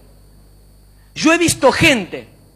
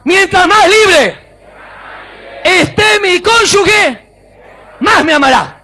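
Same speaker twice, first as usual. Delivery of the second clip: high, slow shouted slogan; 7 semitones higher, 5 dB louder, slower than usual. Shown as a demonstration. Preacher has married people repeat after him, shouting. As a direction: belt it out phrase by phrase.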